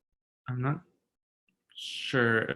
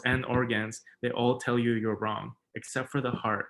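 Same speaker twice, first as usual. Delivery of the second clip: measured, earnest poetry recital; spoken word poem. Acted. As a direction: read each line as a confession.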